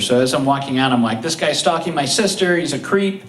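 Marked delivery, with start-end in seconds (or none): 1.2-3.2 fired up. Retold or imitated. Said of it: "now I'm fired up".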